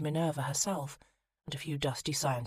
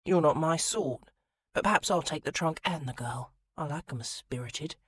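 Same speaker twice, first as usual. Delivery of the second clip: sneer. Acted. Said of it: "The robber's lip curled".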